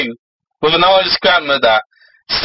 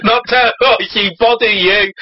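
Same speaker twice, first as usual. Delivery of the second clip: higher-pitched nagging demon voice; pestering demon; 4 semitones higher than usual. Acted. Demon explains himself to citizens, pestering. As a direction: pester them in a comic demon voice. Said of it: "demons have emerged to bother the citizens".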